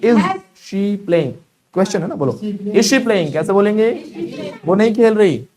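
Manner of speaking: loud, high drill-master calls; projected, energetic classroom drilling. Shown as a demonstration. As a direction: call each sentence out for the class to answer. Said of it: "ऊपर रखो".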